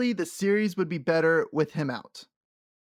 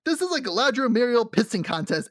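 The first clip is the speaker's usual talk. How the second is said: amused rant; 7 semitones higher than usual. Real, not acted. Ranting about the scene.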